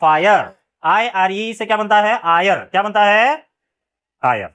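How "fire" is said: फायर with a long "eye" vowel; फायर, gliding from "eye" into "er"; magic-e pronunciation. Shown as a demonstration. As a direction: say फायर as "fa-yer". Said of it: "तो ये हो जाएगा".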